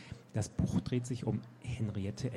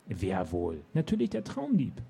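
triumphant captain; 4 dB louder than usual. Acted. Captain proudly names Nick the dream thief, smug. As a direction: announce the obvious with pride.

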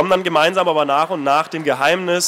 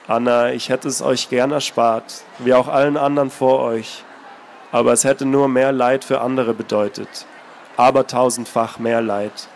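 put-on lower, heavy, sighing old voice; weary old man; 5 semitones lower than usual. Old man explaining to Anna, burdened weary voice. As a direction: speak as if under a heavy burden. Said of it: "seufzte tief, als läge eine schwere Last".

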